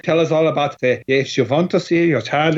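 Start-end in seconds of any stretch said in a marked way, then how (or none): 1.1-2.6 bad Udo Kier impression. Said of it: "that's my really bad Udo Kier".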